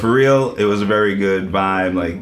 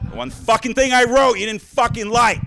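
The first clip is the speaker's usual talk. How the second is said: mock outrage. Comic rant at the audience.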